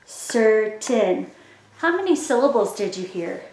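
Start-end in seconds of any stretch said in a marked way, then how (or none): 0.0-1.3 "Certain" split into two slow, separate beats, cer, tain; "Certain" drawn out in two even chunks; syllable by syllable. Shown as a demonstration. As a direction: say "Certain" as if clapping each syllable. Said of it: "Now you try it with me".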